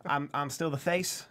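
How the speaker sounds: a light put-on Southern accent; generic Southern accent. Co-host doing a light Southern accent as AJ. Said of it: "Is that your Georgia accent".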